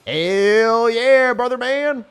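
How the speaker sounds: all-out high, loud yell; full savage mode. Real, not acted. Player sending a rage attack, savage full-throated yell. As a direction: let it rip at full savage force. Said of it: "full, full savage mode".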